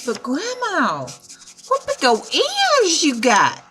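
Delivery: sweet granddaughter checking in; lightly voiced little girl; Little Red Riding Hood. A narrator's reading. Little Red questions fake grandma.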